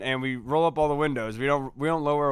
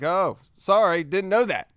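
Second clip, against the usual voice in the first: mock apology; 4 semitones higher, 5 dB louder than usual. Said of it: "he was like".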